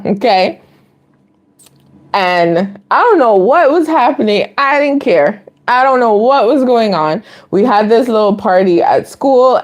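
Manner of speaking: normal talking voice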